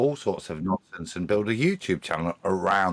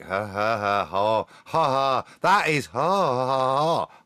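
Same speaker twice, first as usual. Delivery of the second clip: fake laugh; 4 dB louder, slower than usual. Shown as a demonstration. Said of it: "That's fake".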